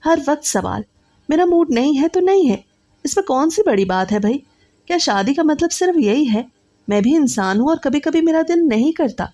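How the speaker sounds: exasperated husband losing his temper with his wife; angry husband. Acted. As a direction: snap back, fed up and defensive. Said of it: "وہ غصے میں آ گیا".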